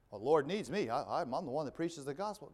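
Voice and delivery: wobbling, puffed-up preacher parody; mock self-importance. Preacher who thinks too highly of himself, mock self-importance. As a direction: lightly imitate a preacher full of himself. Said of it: "preachers who think too highly of themselves".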